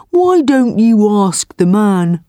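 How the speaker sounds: big, easygoing beast voice. Acted. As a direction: shrug it off like a calm buffalo. Buffalo advises the tiger.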